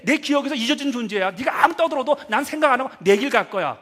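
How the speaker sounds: high, loud, heated retort; acted-out angry confrontation; indignant quarrel. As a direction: fire back as someone snubbed, rising in force. Acts out a spiteful worldly quarrel.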